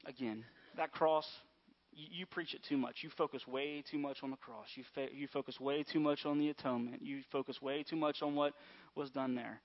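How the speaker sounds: critic's complaint. Retold or imitated. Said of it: "Some people might say".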